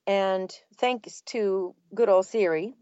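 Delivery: slow, even, lightly voiced assistant read; a hint of the Siri voice, unhurried and measured. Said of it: "You certainly sounded like Siri in the beginning there".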